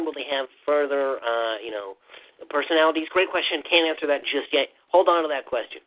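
a hint of a nerdy Q&A host; lightly voiced nerd dodging questions. Developer putting off fans' questions on stream, lightly nerdy voice. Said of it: "your nerdy voice is just barely, barely higher than your actual voice".

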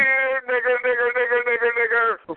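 high put-on falsetto, jeering; sing-song troll heckle in falsetto; mocking falsetto taunt. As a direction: taunt the room in a squeaky fake voice. Troll chanting at the room.

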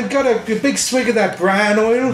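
a lightly put-on Irish brogue for "bran oil"; bad Irish accent. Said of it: "with a bad fucking Irish accent".

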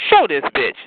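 punchy, loud order; voiced inner command. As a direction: say it short and forceful. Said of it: "you know what it tells me".

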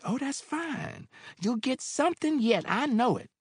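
landlady pleased at his news; brightened Mary. Acted. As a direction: cheer him on.

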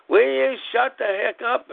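high-pitched exasperated demand; retold mad outburst. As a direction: act out losing patience with a noisy cat. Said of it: "I got mad at her".

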